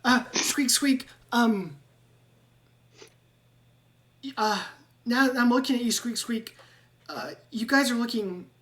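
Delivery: a nervous rat pleading, squeaks between words; squeaky rat-man. Acted. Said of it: "Ratrick will go".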